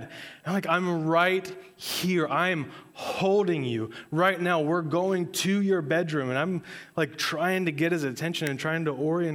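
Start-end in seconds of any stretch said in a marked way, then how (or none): 0.7-6.3 slow reassurance. Retold or imitated. Dad orienting confused son.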